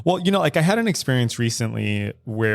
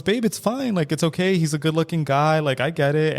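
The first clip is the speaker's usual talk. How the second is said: higher, playfully reassuring partner; imitating his easygoing reassurance, pitched up; playful and fun; 5 semitones higher than usual. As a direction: brush it off lightly, with a teasing lilt. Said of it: "he was just very playful and fun about it".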